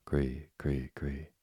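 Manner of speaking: a cricket's last cree fading away to nothing; dying cricket cry. Acted. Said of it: "had scarcely time to cry".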